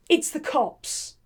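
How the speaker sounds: rushed, flustered denial with stammering; mock panic. Flower girl told she's being watched, a touch of frightened protest. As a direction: play a startled flower girl protesting innocence. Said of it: "She freaks out".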